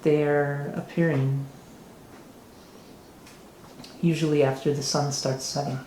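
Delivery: a hint of a giddy, scheming noble offering a job; giddy mayor. Mayor offers adventurers a task, lightly flamboyant voice.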